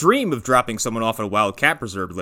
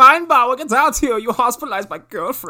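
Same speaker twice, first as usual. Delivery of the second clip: angry yell; 11 semitones higher than usual. Retold or imitated. Acting the drunk's angry yelling.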